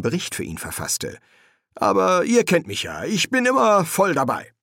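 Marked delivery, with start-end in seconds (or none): 1.7-4.5 high, over-eager demon; anxiously upbeat; nervous assurance. Acted. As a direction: protest your keenness in a high voice. Crowley covers his slip nervously.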